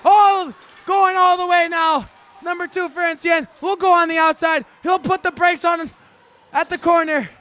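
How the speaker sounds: fast, excited live hockey call; hockey play-by-play. Acted. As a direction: call the game like a rink announcer.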